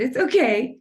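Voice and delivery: retold reassurance, lifted in pitch; reassuring. Artist comforting a man who started crying, reassuring.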